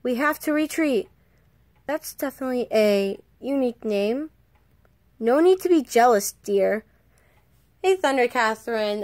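brighter audition character voice. Acted. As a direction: read it as the comic hero. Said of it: "wait, I'm still doing the voice".

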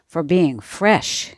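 talking through a mouthful of bread; slow words round a bite of food; mouth full. Acted. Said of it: "with his mouth full".

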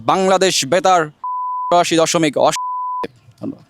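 slow, measured radio cricket commentary; formal, projected commentator delivery; Chowdhury Jafarullah Sharafat. Shown as a demonstration. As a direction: commentate ball by ball, stretching each phrase. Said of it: "Chowdhury জাফরুল্লাহ শারপাত স্যারের কণ্ঠে".

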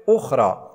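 "أخرى" with a clear initial hamza, u vowel; word on its own. Shown as a demonstration. Teacher showing how "أخرى" sounds alone, full hamza. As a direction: say "أخرى" standalone, starting on a glottal u. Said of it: "فهي نطقها لوحدها".

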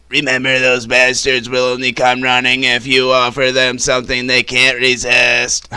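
lightly voiced gruff redneck; a hint of a gruff hunter; Ned impression. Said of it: "pretty good Ned impression".

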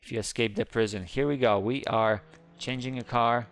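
usual speaking voice

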